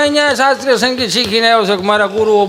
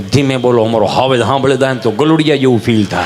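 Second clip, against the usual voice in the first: hushed rustic warning; 8 semitones lower than usual. Retold or imitated. Hushing guests about the lion.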